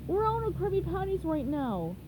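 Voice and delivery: a hint of deadpan squid; mildly voiced grumpy cashier; Squidward voice.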